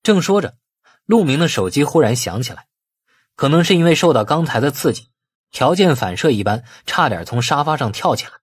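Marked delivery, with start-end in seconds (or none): none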